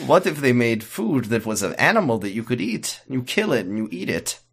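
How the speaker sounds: lightly put-on Eastern European accent. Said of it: "I'm doing the vaguely Eastern European accent".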